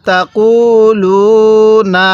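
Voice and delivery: drawn-out chant for students to repeat; teacher reciting for repetition; slow recitation. Shown as a demonstration. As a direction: model the verse slowly. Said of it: "পড়ুন আমার সাথে".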